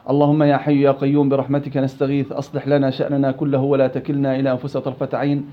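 measured supplication on a level tone; opening prayer. Real, not acted. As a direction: recite an opening du'a, evenly and a little low. (دعاء افتتاحي بنبرة هادئة رتيبة)

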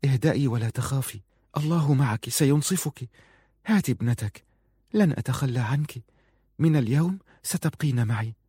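put-on calm her like a frightened child; soothing comfort. Farun reassuring Aziza, soft and gentle.

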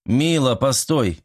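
ordinary delivery

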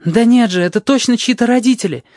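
Red insists anxiously; worried girl. A narrator's reading. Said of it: "волнуется Рыжая".

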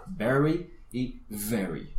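very and very said alike, slow; slow very y very, no change; same sound. Shown as a demonstration. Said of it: "Una R o dos R's en inglés suenan igual". (very y very, lento e igual)

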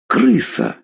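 high, contained squeal of fright; startled shriek. A narrator's reading. Mother spotting a rat in the basement, startled shriek. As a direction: yelp it without real volume. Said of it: "вскрикнула Клавдия".

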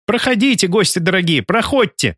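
high-pitched, bustling welcome; fussing hostess. A narrator's reading. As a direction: usher guests in, voice lifted well up. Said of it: "засуетилась женщина". (суетливая хозяйка, высоким голосом)

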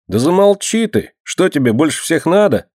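high-pitched, exasperated reproach; reproachful. A narrator's reading. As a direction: snap at her reprovingly, voice jumping up. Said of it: "с укором сказал Лёнька". (с укором, повышенным тоном)

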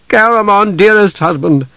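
high, pleading wifely voice; calm a husband with urgent tenderness; anxious, tender appeal; soothing. A narrator's reading. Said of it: "soothed him".

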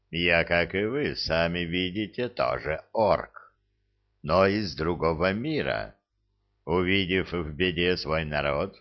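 put-on old orc voice. Guest orc Hrad speaks.

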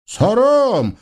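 высокий зов по имени; окликни главаря высоко; тощий разбойник. Acted. Тощий разбойник снова зовёт. (высокий оклик тощего разбойника)

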